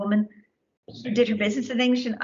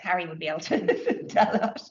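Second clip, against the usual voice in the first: amused, laughing as you finish. Real, not acted. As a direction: laugh breaking into the words. Joking aside to audience member.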